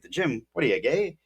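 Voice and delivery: hammed-up incredulous jab; exaggerated mock scoff. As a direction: overplay the teasing, lightly. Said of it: "I would just say it, like, super exaggerated".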